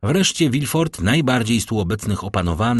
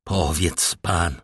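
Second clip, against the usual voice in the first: slow, choked and strained; choked plea at the deathbed; 3 semitones lower, 3 dB quieter, slower than usual. Acted. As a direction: squeeze the words out through a tight throat. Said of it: "rzekł Morel zdławionym głosem".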